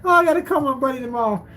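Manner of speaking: high voice, worn out from laughing; laughing hard. Real, not acted. Streamer planning to tell his buddy, still amused. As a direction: recover from a real laughing fit. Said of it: "I'm laughing so hard".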